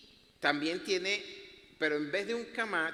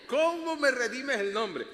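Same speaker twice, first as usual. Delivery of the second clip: high, loud, slow protest through laughter; amused outcry, stretched out; laughing exclamation; 7 semitones higher, 6 dB louder, slower than usual. Retold or imitated. Preacher asking God about his name, laughing exclamation.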